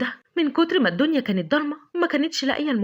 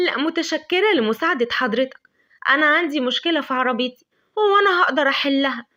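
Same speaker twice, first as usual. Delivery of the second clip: indifferent; 3 semitones higher than usual. Acted. Lavender brushing off Adham's help, mildly dismissive. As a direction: brush off his help, then push him away. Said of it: "ردت لافندر بلا مبالاة".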